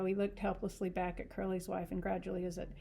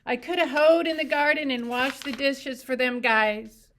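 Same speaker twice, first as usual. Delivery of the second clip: high, loud and shaky with grief; shaking voice; 6 semitones higher, 11 dB louder than usual. A narrator's reading. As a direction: voice breaking while sniveling. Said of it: "He sniveled and his voice shook".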